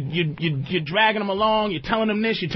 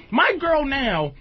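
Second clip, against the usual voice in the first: excited; 8 semitones higher, slower than usual. Real, not acted. Excited loud outburst.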